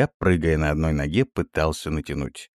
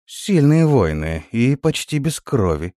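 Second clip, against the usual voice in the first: respectful; 7 semitones higher, 4 dB louder than usual. A narrator's reading. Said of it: "уважительно произнесла молодая вампирша".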